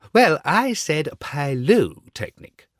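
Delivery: the rocket corrects the Bengal light, severely. Acted. Rocket snaps back at the Bengal light, severe and slow. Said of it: "in a severe tone of voice".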